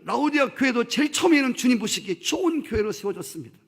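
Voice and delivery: loud, rising climactic sermon; 설교하듯 힘차게; fiery preaching. Acted. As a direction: preach it with full conviction. Preaching at full force.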